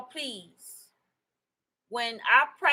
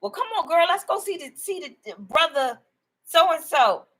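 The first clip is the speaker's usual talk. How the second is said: higher, lightly voiced sister urging her along; imitating the sister; 6 semitones higher than usual. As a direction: coax her like a chatty sister, pitched up. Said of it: "her sister said to her".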